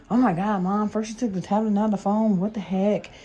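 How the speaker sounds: put-on exasperated teen brushing off her mom; mock-annoyed kid voice; snappy daughter. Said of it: "they get snappy with her".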